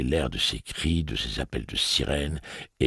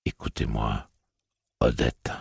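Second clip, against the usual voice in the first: suave; 3 semitones lower than usual. A narrator's reading. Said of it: "d'un ton si suave".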